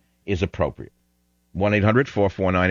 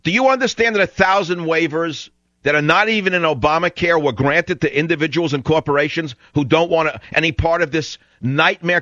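angry; 6 semitones higher than usual. Real, not acted. Angry radio host berating caller.

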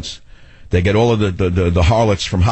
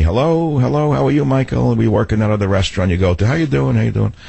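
lightly voiced greeters, a little higher; hint of the men saying hello; retold friendly greeting; 3 semitones higher than usual. Restaurant workers greeting Michael at the bar, lightly imitated.

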